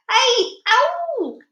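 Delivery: high, loud pained howl; giant's roar. A narrator's reading. Flesh lump eater in a nightmare, roaring. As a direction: roar out in your sleep, high and long. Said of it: "roared the flesh lump eater".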